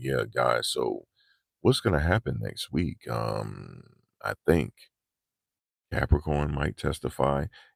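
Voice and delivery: sapped, low-energy, soft, dropped voice. A content creator shows how not to talk to viewers, low-energy delivery. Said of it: "Y'all don't want me talking like that".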